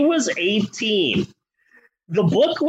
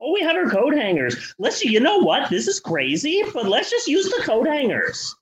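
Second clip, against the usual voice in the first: giddy Barb and Star voice; 5 semitones higher than usual. Pretend.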